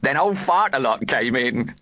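put-on high gurgly girl; gurgling girl voice. A narrator's reading. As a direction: gurgle it out, giggly. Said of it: "gurgled a girl".

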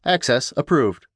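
computer voice. Acted. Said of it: "announced the computerized voice".

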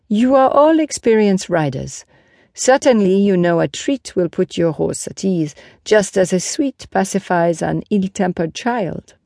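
lightly voiced knight explaining to onlookers; a hint of a teacher-knight; Lancelot, earnest horseman.

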